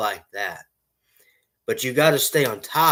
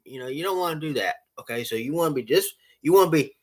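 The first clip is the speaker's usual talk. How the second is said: ordinary talk, nothing marked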